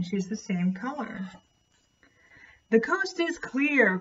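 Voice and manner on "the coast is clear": high, slow all-clear call; mild announcing shout. Acted. Cornelius telling the butterflies, a slow high call. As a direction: let everyone know it's safe. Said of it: "Cornelius shouted".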